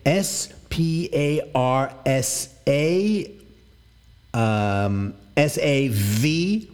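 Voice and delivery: slow, letter by letter; spelling it out. Shown as a demonstration. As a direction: spell each letter out slowly. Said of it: "how do you spell that?".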